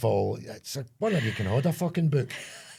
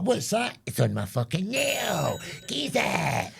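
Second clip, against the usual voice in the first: baffled shop worker; 9 semitones higher, much slower than usual. Pretend. Baffled worker, then customer.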